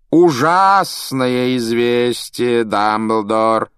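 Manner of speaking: slow, loud, mock-tragic drawl; theatrical drawl. A narrator's reading. Malfoy announcing to Dumbledore, theatrical drawl. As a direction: ham up the bad news. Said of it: "театральным голосом протянул Малфой".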